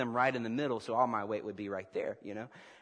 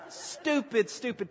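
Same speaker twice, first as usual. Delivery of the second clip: laughing; 10 semitones higher, slower than usual. Real, not acted. Laughing at his own foolishness.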